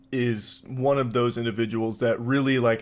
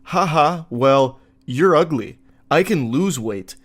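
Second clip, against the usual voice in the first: louder, mock-playful jab; playful comeback; 5 dB louder, slower than usual. Reading the forum's playful comeback, mock cheerful. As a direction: toss it off like a cocky joke.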